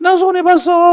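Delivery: very high, put-on weepy sobbing. Acting out a building that lost money on a sale: mock crying. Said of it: "막 하고 이게 울고 있어요".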